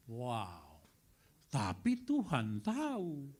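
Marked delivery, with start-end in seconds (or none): 1.5-3.3 Tapi Tuhan tahu drawn out slowly, each word weighted; slow, weighty. Shown as a demonstration. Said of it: "repeated refrain".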